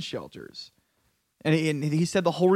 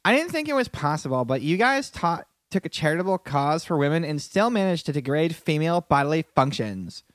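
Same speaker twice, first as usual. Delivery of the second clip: mock valley girl, pitched up; white girl voice. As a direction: read it like an offended white girl. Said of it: "in my best white girl voice".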